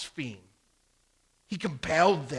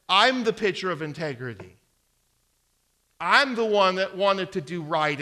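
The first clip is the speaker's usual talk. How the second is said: louder mock self-righteous protest; lightly voiced accusing wife; 4 semitones higher, 7 dB louder than usual. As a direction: lightly act a wife loudly claiming integrity. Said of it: "she's the one that says".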